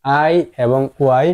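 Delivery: slow spelled-out letters. Shown as a demonstration. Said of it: "সেম".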